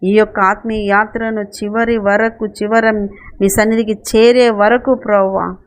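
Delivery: steady, even-toned closing prayer. Real, not acted. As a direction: pray aloud on the congregation's behalf. (ప్రార్థన స్వరంలో)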